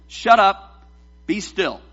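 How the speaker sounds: loud burst, then a firm order; yelled command. Acted. Jesus yelling at the rain, yelled command. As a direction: yell the first words, settle on the last. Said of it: "He's yelling at the rain".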